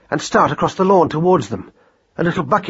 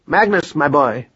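mildly formal fatherly address; a touch of pomp; formal speech. A narrator's reading. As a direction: open a little speech to your son. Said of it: "formal speech".

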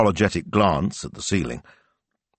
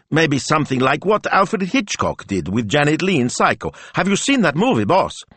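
higher, louder, eager planning; excited; 7 semitones higher, 3 dB louder than usual. Acted. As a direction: rattle off ideas with excitement. Smilzo thinking out loud excitedly.

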